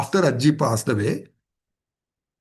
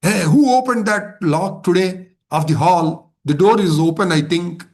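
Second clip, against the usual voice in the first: mild mock shout at a devotee; retold shouting; 2 semitones higher than usual. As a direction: retell a scolding with slightly raised voice. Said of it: "suddenly Swamiji started shouting at him".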